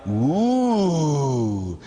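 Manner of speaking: drawn-out sarcastic ooh; unimpressed mocking ooh. Priest mocking the Bible answer, drawn-out ooh. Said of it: "I go".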